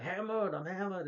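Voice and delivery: high-pitched imitation of a drunk; hammed-up drunk voice; mock drunk. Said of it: "we can tell you're hammered".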